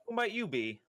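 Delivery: Theo asking. Acted. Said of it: "looks at him and goes".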